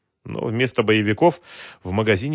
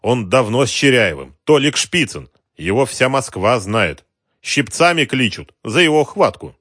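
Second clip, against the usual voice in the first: slow, higher contemptuous boss; gang boss; 5 semitones higher, 8 dB louder than usual. Acted. Wholesaler sneers at the rival gangster, contemptuous. Mamed speaking.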